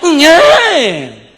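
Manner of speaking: long, loud mock newborn wail; hammed-up infant cry; drawn-out baby cry. Shown as a demonstration. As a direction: stretch it out like a crying baby. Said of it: "시작".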